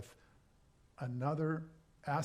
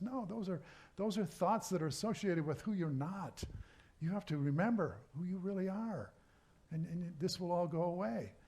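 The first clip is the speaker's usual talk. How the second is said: higher, earnest reassurance; reassuring friend; 5 semitones higher than usual. Acted. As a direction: gently insist he remember who he is. Friend talks John back to himself.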